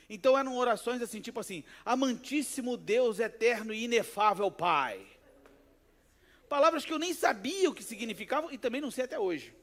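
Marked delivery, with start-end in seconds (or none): 1.8-5.0 slow, louder, measured mock invocation; formal prayer. Church member addressing God, imitated formal prayer. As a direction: intone it like a ceremonious church elder. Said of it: "as pessoas eram muito formais na oração".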